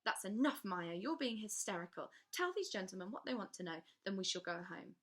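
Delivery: stern governess. Acted. Governess scolds Maya.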